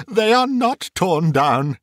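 high, slow cry of relief; relieved cry. A narrator's reading. Scrooge clutches his bed curtains, crying out in relief. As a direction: cry out, drawing the words out. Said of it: "cried Scrooge".

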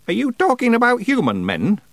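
high-pitched astonished witch. A narrator's reading. Witch asks Feegle about human men, astonished. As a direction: ask it in high disbelief. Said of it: "asked Miss Treason in astonishment".

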